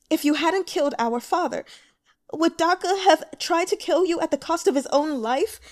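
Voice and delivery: high, loud bitter challenge; angry accusation. Acted. Grieving sister accusing the broker of killing their father, angry. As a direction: throw the question at him in rage.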